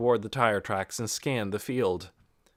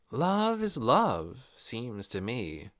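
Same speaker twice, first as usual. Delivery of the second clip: slow musing; much slower than usual. Acted. Crystal musing.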